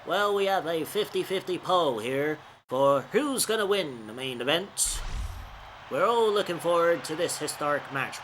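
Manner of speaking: lightly voiced announcer, not really Cole; a mild play-by-play announcer read; Michael Cole voice. Gamer doing a loose Michael Cole commentary impression. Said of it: "I know that's not a Michael Cole voice".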